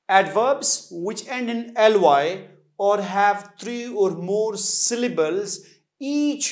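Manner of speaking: each word read out slowly and clearly, like dictation; slow rule reading. Shown as a demonstration. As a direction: spell the rule out for students, word by word. Reads grammar rule aloud. (धीमी, साफ़ पढ़ाई वाली आवाज़)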